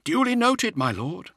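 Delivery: deadpan. Acted. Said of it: "in a deadpan voice".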